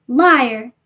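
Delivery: sudden loud shout of Liar. Acted. Harry shouting at Voldemort, loud. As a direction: hurl the word back at him. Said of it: "Harry shouted suddenly".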